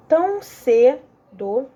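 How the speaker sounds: "Tão cedo" stretched out very slowly; slow scansion. Shown as a demonstration. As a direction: draw out each syllable to count it. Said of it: "passar pro outro verso". (escansão lenta)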